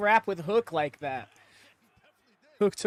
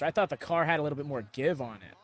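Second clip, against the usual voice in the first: fast, wired caffeine rush; too much caffeine; 6 semitones lower, faster than usual. Real, not acted. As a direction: rattle it off wired on coffee. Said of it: "I am, like, so wired on caffeine right now".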